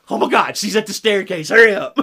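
hiss-shout a panicked hurry; imitating a kid racing downstairs; excited kid. Kids racing on Christmas morning.

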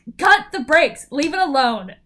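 high, loud, laughing disbelief; laughing exasperated plea. Retold or imitated. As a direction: plead with him through laughter, pitch way up.

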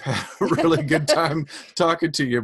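robotic glitchy call audio. Real, not acted. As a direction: sound like a garbled robot voice. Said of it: "Robot voices".

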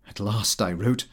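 plain reading voice

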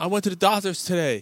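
high, giddy joke-wife voice; acted-out gleeful wife; excited wife. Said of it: "Why are you so excited".

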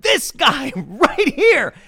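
high, drawn-out mock shout; retold yelling. Protester singling him out to the crowd, mock yelling. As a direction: imitate a protester hollering an accusation. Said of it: "the dude who's yelling at me".

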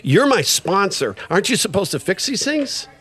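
mock outrage at being let down; pissed off. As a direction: challenge your sponsor in disbelief. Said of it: "I get pissed off".

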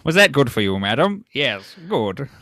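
mock upper-class Brit, hammed up, laughing through; a hint of a stuffy gentleman in bed, played for laughs; hammed-up posh English lover. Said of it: "very British".

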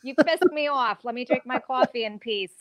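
mock-scold Tony like Carmela; Carmela Soprano. Playing Carmela Soprano, shooing Tony away, hammed-up irritation. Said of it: "Carmela Soprano?".

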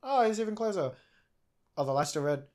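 rising to a loud high alarm; building panic. Retold or imitated. Tension as rider approaches.

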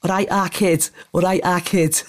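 put-on northern accent slipping into Scouse; Scouse-tinged accent. Shown as a demonstration. Showing friend an accent, a bit Scouse. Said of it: "no, that's a bit Scouser".

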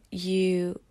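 ordinary talk, nothing marked

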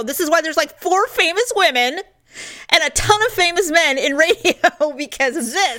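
high, emphatic self-disgust; host ranting about her recorded voice, mock outraged. Rise into a hammed-up complaint. Acted rant at her own voice.

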